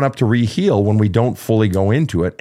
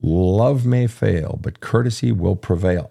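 savoring the quote; slower than usual. Shown as a demonstration. Host repeats the Vonnegut quote to savor it, slow. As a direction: repeat it slowly, savoring each word. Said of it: "I like that".

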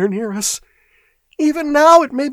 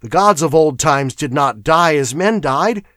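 high-pitched, alarmed clerk; frightened chatter; 12 semitones higher, 5 dB louder than usual. A narrator's reading. Shaking clerk warning of a lurking horror, frightened. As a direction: warn them with mounting dread. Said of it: "chattered Primero".

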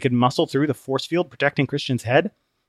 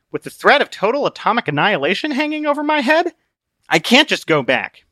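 raised, strained protest; Christian, desperate; 11 semitones higher, 4 dB louder than usual. Acted. Christian refusing to turn back, alarmed.

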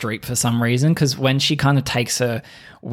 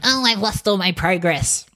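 lanky dad; 7 semitones higher than usual. Retold or imitated. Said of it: "being like".

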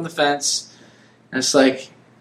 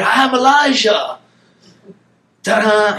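mock grand announcement; 4 semitones higher, slower than usual. Mock grand entrance as Elijah.

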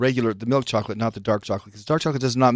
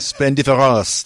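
slow, louder mock French accent on Splendiferous; Splendiferous said the French way, slowly; 4 dB louder, much slower than usual. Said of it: "No, that's French".

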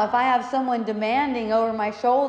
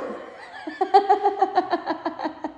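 high breathy laugh; real laugh; 10 semitones higher than usual. Real, not acted. Delighted by what dad said, laughing. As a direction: let a laugh ripple out. Laughs after dad's quote.

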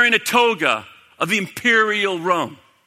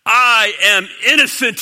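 louder, pleading protest; raised preacher voice as Pilate protesting; crying out; 3 semitones higher, 6 dB louder than usual. Retold or imitated. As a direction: call out the innocence to a crowd. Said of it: "he cried out to the crowd".

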